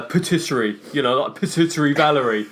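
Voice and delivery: "patisserie" anglicized and loud; British pronunciation. Shown as a demonstration. Host likens it to Valerie, loud anglicized "patisserie". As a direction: say "patisserie" as an English high-street name. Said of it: "That's the British way of saying it".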